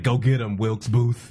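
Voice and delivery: low, different-timbred mock general giving an order; lightly voiced old general sending off an assassin; mock Lee. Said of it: "And he's like".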